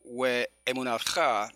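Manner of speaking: emunatja drawn out, accent on "tja"; stress on last syllable. Shown as a demonstration. Teacher reading the next Hebrew word, final stress. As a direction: land on the end of emunatja. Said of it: "la palabra es aguda".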